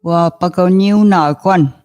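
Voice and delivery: Wa pa ka niu na kwan, each syllable spaced apart; slow it down syllable by syllable for the class; said slowly. Shown as a demonstration. Teacher to students learning the color word, said slowly. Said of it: "Again, I'll say it slowly".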